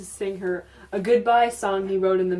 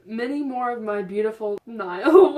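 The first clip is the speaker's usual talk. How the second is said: misread line; 6 dB louder than usual. Real, not acted.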